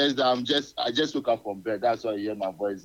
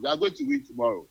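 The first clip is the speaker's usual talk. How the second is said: high, eager confident prediction; excited; 14 semitones higher, faster than usual. Real, not acted. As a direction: lift it up with hope.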